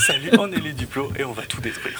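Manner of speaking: put-on laughing, cutesy little girl voice. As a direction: chirp it like a tiny girl. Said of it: "Avec la voix de petite fille".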